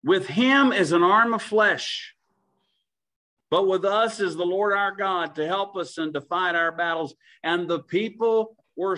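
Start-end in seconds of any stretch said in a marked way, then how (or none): 0.1-5.4 proclaiming loud. Real, not acted. Preacher proclaiming scripture.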